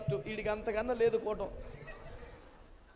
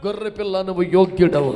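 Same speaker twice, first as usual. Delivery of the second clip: loud, ringing cry of worship; shouted praise; 3 semitones lower, 14 dB louder than usual. Acted. The elders bowing before the Lamb, shouting praise. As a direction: proclaim యోగ్యుడవు at full voice to the throne.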